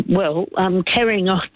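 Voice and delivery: hiccuping between words; interrupted by hiccups. Real, not acted. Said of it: "Sorry, I've got the hiccups".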